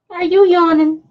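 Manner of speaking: high-pitched cooing question; puppy talk. Real, not acted. Owner to yawning puppy, high pet-talk.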